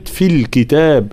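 "في الكتاب" with distinct fil; clear kasra. Shown as a demonstration. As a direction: give "في" a clear i vowel. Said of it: "لابد من بيان حركة الكسر". (بيان كسر الفاء في الكتاب)

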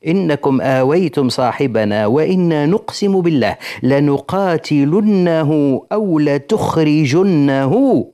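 slow, drawn-out formal recitation; declaimed threat letter. Acted. Teacher reads Quraysh's threatening letter to listeners, slow formal declamation. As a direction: read it out deliberately, stretching the verb endings. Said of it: "نكمل لكم ايش قالوا له في الرسالة".

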